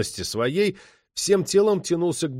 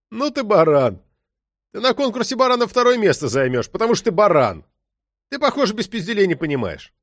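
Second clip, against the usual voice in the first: a louder, higher furious insult; young detective losing his temper and shouting; angry yell; 7 semitones higher, 4 dB louder than usual. A narrator's reading. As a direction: tear into the suspect with contempt. Young cop yelling at suspect.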